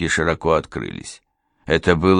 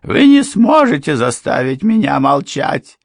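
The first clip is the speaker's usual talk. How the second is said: desperate defiance; 9 semitones higher, 8 dB louder than usual. A narrator's reading. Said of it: "с отчаянием возразила та".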